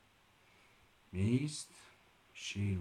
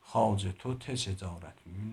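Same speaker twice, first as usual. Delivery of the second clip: fast stumbling try. Shown as a demonstration. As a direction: rattle it off fast like a tongue twister and stumble. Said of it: "من به سرعت اینو نمیتونم بگم". (تند و با لکنت، مثل تلفظ سریع یک جمله دشوار)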